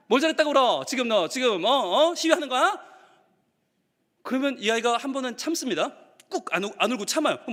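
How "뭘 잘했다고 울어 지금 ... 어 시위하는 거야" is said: escalating mock maternal rebuke; scolding mother. Mother to her crying child, scolding harder. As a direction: push harder, rising into exasperation. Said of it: "엄마 뭐라 그래요?".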